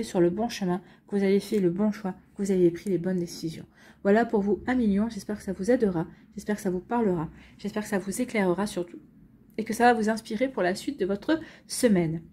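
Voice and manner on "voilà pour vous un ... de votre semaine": talking through hiccups; hiccupping between phrases. Real, not acted. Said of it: "Pardon, j'ai le hoquet".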